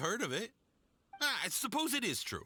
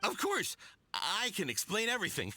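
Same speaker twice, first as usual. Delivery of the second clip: jumpy and eager to please; nervous eagerness. Acted. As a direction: overeager nervous merchant. Nervous accused merchant protests.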